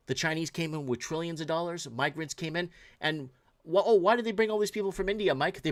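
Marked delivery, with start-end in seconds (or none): none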